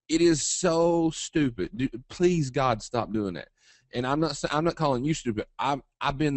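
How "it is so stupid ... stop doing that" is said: exasperated. Real, not acted. Exasperated at common trading mistake.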